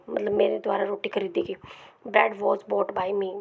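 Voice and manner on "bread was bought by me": slow dictation. Shown as a demonstration. Teacher repeats example slowly.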